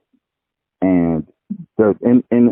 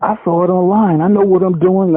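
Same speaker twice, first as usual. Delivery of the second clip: higher, know-it-all voice; mock self-assured know-it-all; imitating cocky guy; 9 semitones higher than usual. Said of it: "He says".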